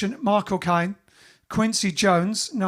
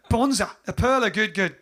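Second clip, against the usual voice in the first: badly faked Australian accent; mock-Australian catchphrase. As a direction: repeat it in a hammed-up Australian accent. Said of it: "That's my really bad Australian accent".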